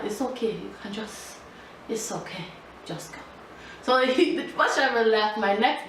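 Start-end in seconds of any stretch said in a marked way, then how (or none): 0.1-3.2 softer, fading embarrassed brush-off; quiet dismissal. Retold or imitated. Girl tells bus driver to leave, soft embarrassed voice. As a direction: wave the driver on under your breath. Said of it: "I told the bus driver".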